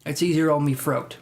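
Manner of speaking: mock British, "throat" said as "froat"; lightly put-on British accent with f for th; casual imitation of a British accent. Shown as a demonstration. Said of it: "depending on the British accent".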